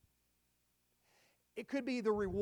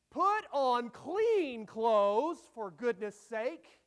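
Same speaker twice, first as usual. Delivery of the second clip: slow, louder step-by-step parent instructions; parent giving orders; 2 semitones higher, 6 dB louder than usual. Retold or imitated. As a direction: spell out every step to a dawdling kid. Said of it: "you may have to tell them this".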